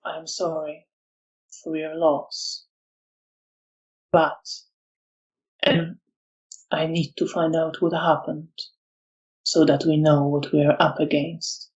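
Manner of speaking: a lightly voiced calm, measured apology; calm reply. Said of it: "replying very calmly".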